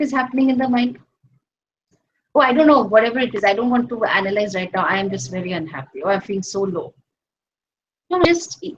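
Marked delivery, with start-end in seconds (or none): 2.3-6.9 quick, mildly gloomy brush-off; mock dejection. Seeker who won't analyze right now, mildly downcast.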